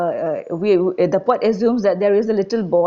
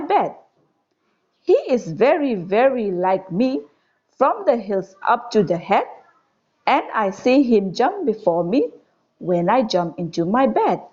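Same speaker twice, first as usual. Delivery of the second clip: put-on measured, lilting verse reading to children; poem recitation. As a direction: recite it line by line with lifted key words. Recites the second stanza twice.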